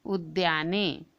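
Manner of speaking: उद्याने drawn out slowly, each syllable distinct, u-dyaa-ne; slow clear pronunciation. Shown as a demonstration. Teacher models उद्याने slowly for the children to repeat. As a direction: sound out उद्याने slowly for the class. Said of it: "क्या हो जाएगा यहाँ पर?".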